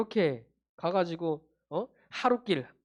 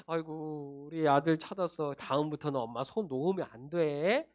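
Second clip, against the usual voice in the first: lower, softened parental voice; relieved gentle parent; 5 semitones lower, 4 dB quieter than usual. Acted. Parent to the son just found, gently relieved. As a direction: reassure softly with a mild warning.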